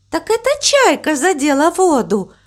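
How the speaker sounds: gentle, high-pitched explanation; soft and soothing. A narrator's reading. Cow explains the splash to crow, soft and soothing. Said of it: "мягко сказала корова".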